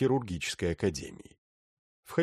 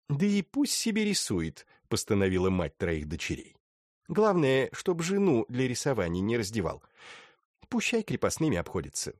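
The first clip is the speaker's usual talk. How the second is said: put-on older woman voice; 3 semitones higher than usual. Mother of three daughters speaks.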